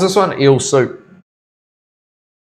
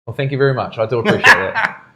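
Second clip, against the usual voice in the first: put-on posh English accent. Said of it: "well-spoken Englishman".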